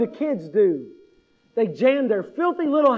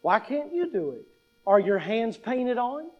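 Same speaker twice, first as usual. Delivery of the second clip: mock loving; 4 dB quieter than usual. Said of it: "very lovingly and say".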